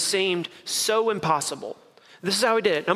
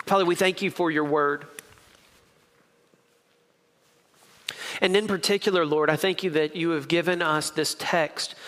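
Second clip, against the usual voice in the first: prayer; 2 semitones lower than usual. Acted. Pastor leads opening prayer.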